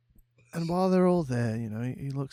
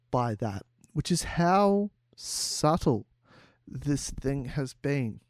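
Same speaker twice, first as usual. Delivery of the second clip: lightly acted solemn speech with pauses; measured pronouncement, weighing each phrase; deliberate, portentous delivery; Simon Cowell; 3 semitones lower than usual. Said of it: "he, he says to them".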